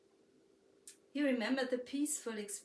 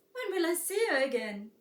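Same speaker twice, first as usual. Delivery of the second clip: put-on little girl voice; 8 semitones higher, 10 dB louder than usual. A narrator's reading. Girl asks wanderer, voiced child.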